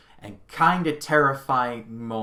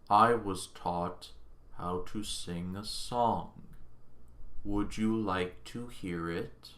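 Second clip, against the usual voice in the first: failing computer voice; 5 semitones lower, 8 dB quieter, slower than usual. Retold or imitated. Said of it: "Hal is like".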